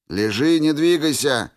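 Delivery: firm barked order; sharp command. A narrator's reading. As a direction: order him to stay down. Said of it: "приказал Рябой".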